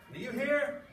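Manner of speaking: loud, high, word-by-word bellow; furious father. Acted. Father yelling at his son for not knocking, furious bellow. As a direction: hammer each word like an enraged dad. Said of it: "working himself into a rage".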